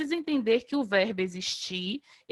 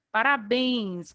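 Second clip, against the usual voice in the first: slow "Parabéns" with the final béns strongest; stress on béns; much slower than usual. Shown as a demonstration. Teacher showing students the strong syllable, slow stressed béns in "Parabéns". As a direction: draw out "Parabéns", landing on béns. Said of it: "A sílaba mais forte, bens".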